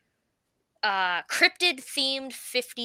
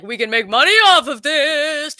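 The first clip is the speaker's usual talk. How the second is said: higher, louder mock excitement; mock eager townsfolk; 6 semitones higher, 8 dB louder than usual. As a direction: pitch up like a gleeful money-grubber. Acting out greedy townsfolk's reaction.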